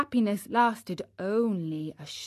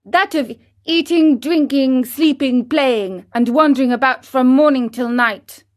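higher, louder cheeky list; gleeful puppet boy; 4 semitones higher, 7 dB louder than usual. Acted. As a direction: savour each lazy pleasure. Pinocchio listing.

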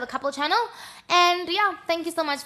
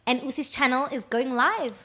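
announcing big news. Real, not acted. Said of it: "Sorry, I'm excited".

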